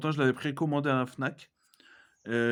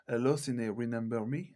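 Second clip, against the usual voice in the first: French speaker's attempt at an English accent; mock English accent; 2 semitones lower than usual. Vlogger quoting Scream to viewers, in a mock English accent. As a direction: quote the film line in accented English. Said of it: "Avec mon superbe accent anglais".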